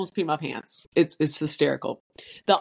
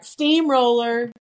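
playful call; 4 semitones higher, slower than usual. Shown as a demonstration. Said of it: "And then I go back".

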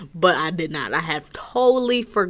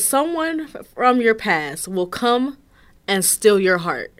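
slow, deliberate reading of the fortune; reading a fortune cookie aloud, slow and careful; reading the fortune slowly; slower than usual. Shown as a demonstration. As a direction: spell out each word of the fortune slowly. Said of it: "this is word for word".

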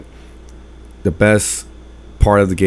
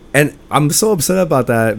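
fake upset; 6 semitones higher than usual. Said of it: "like, fake upset".

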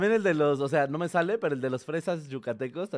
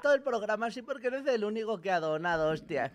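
put-on Spain Spanish accent; 4 semitones higher, 4 dB quieter than usual. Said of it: "hacer su acento".

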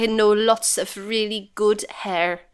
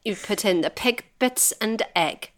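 lightly put-on Swedish accent. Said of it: "That was so horrible".

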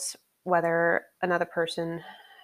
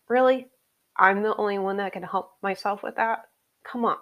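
exasperated retort; 3 semitones higher than usual. Retold or imitated. Retort to dismissive doctors.

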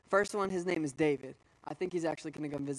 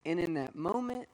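choked up; 3 dB quieter than usual. Real, not acted. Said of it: "I don't know why it's giving me emotion".

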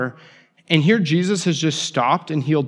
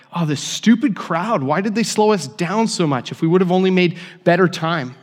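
angry; 4 semitones higher than usual. Retold or imitated. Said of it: "to angry".

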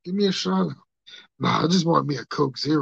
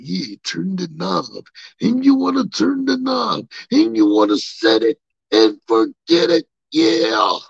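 louder drawn-out promo, slow at the start; lightly voiced wrestler promo; 3 semitones higher, 6 dB louder than usual. Quoting the wrestler's advice in a lightly put-on promo voice. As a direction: lean into it like a ring announcer.

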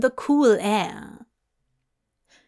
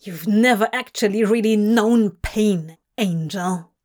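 hissed; 4 dB louder than usual. Acted. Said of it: "he hissed".

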